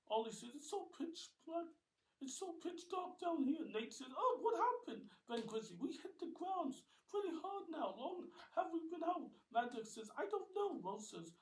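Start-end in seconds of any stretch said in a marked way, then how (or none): 0.5-3.6 very high, loud voice; nervous in the dark; uneasy complaint. Acted. Ollie in the dark. 4.2-5.1 very high, loud question; startled waking; dazed surprise. Acted. Nate wakes up. 5.8-9.3 very high, loud Ben; raised figure voice; high character voice. Acted. Ben wakes in dark. 10.2-10.8 very high, loud reply; squeaky figure voice; high character voice. Acted. Mad Dog answers.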